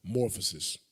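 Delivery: slow, soft letter-by-letter spelling; careful dictation, letter by letter. Shown as a demonstration. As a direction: sound out each letter slowly. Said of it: "I think it's A N T H R O".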